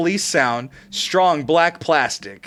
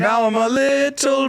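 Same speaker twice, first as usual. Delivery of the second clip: squeaky helium-high voice; 6 semitones higher than usual. Real, not acted. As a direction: talk after sucking helium. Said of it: "Now my voice is super high pitched".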